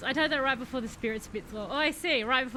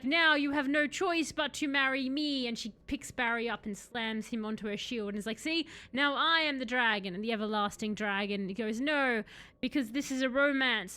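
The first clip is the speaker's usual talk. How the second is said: animated storytelling with acted-out character lines; story narration. A narrator's reading. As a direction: tell it like a dramatic tall tale. Tells a made-up romance story.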